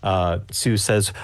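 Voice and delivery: usual speaking voice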